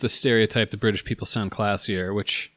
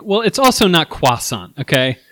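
mock retort; 4 semitones higher, 4 dB louder than usual. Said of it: "I'm like".

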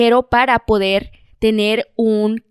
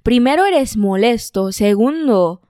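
mock Spain Spanish. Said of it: "eso fue lo mejor que pude hacer con España".

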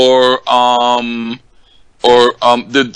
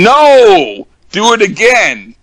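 high, loud imitated outburst; exasperated retold caller; 10 semitones higher, 5 dB louder, slower than usual. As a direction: wail it as a fed-up caller, pitched way up. Retold annoyed caller losing patience.

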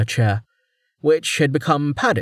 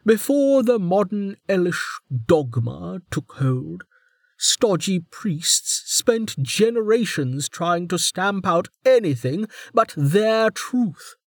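warden voice; 9 semitones higher, slower than usual. A narrator's reading.

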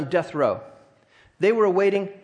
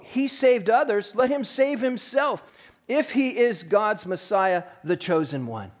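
sneering rulers. Retold or imitated. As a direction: lightly sneer it like a scornful ruler. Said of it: "the rulers even sneered at him".

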